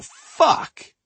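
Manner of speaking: sudden high furious yell; angry shout. Retold or imitated. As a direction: blurt it out in a rage. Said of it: "I'd kick the phone and go".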